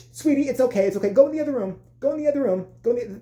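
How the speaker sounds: high, insistent mock soothing; mom shooing a child. Mom sending her kid to another room, high shooing.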